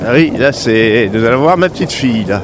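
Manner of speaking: talking while being shaken about; on a bumpy road. Real, not acted. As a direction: voice jolted by a bumpy ride. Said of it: "Ça secoue juste un tout petit peu".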